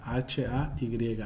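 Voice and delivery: ordinary talk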